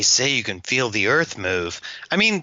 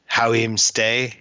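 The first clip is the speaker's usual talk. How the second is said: mock Jamaican patois; slower than usual. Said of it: "they'll say something like".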